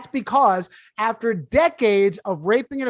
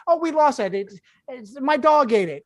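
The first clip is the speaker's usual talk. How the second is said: mock excuse; 3 semitones higher than usual. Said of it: "I hate when that happens".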